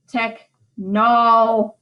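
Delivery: "technology" slowly as tech-NOL-gy, middle syllable drawn out; three syllables. Shown as a demonstration. Teacher playing Shakespeare with the word, slow three-syllable "technology". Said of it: "to make it just one unstressed syllable".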